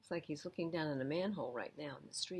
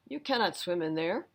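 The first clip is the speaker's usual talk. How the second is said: stern policeman; 7 dB louder than usual. Acted. Policeman warns Sammy.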